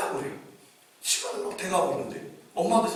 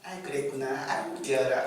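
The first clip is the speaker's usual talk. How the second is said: put-on gentle sing-song praise for a little kid; talking to a small child; 4 semitones lower than usual. Shown as a demonstration. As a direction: coo like a grown-up charmed by a toddler. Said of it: "이렇게 말합니다".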